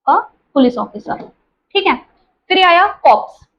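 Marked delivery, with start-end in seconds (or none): 0.1-1.2 a police officer, slowed right down; slow, careful repeat of "a police officer"; slow dictation. Shown as a demonstration. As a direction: repeat it slowly so students can write it. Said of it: "repeated slowly".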